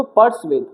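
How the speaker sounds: पर्सवेद as "pars-VED"; correct pronunciation. Shown as a demonstration. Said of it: "क्या पढ़ेंगे इसको".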